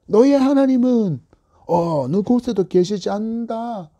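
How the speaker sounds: mock the believer as his enemy; mocking taunt. Enemies jeering at the psalmist, mocking taunt. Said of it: "원수들이 조롱하면서 사용했던".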